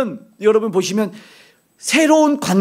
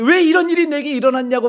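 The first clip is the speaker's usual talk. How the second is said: lament; 6 semitones higher than usual. Retold or imitated. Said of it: "탄식했지만".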